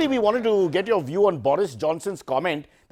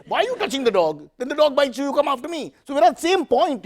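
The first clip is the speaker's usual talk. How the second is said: put-on higher-pitched scolding, as if to a child; mock scolding coach; 8 semitones higher than usual. Mock scolding Virat about touching the ball. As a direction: lecture him like a fussy parent.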